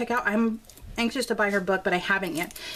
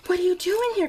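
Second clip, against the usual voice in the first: higher, louder startled question; surprised; 9 semitones higher, 3 dB louder than usual. Retold or imitated. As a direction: caught off guard by her son. Son runs back in unexpectedly.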